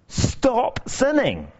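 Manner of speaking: high, very slow, measured command; Jesus speaking to the healed man, slow and solemn. Retold or imitated. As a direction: lay each word down slowly like a command. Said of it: "Jesus says to the healed man".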